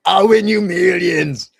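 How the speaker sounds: loud, high, slow showman's boast; boastful promise. Retold or imitated. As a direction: sell it like a huckster on a table. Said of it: "he used to leap on tables".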